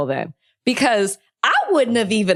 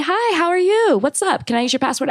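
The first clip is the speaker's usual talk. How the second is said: fake super-friendly; 7 semitones higher than usual. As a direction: greet the neighbor all sweetness. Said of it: "been super friendly".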